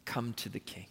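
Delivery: low, very soft, gentle invitation; almost breathe it to one listener. Acted.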